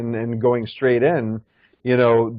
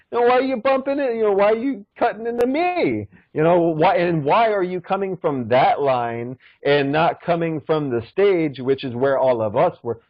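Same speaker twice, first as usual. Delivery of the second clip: much higher, accusing rapid-fire questions; indignant challenge; 4 semitones higher than usual. Retold or imitated. To the man cutting the line, higher with mock indignation. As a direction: fire the questions back at him. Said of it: "It's like".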